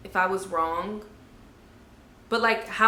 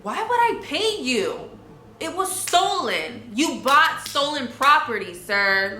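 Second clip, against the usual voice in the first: high, slow disbelief; high, slow mock disbelief at paying for her own watch; incredulous; 4 semitones higher, slower than usual. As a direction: let the outrage rise up high and drag it out. Indignant reaction to the buyer.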